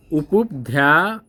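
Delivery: slow careful reading. Shown as a demonstration. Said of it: "कह रहा है उपुप".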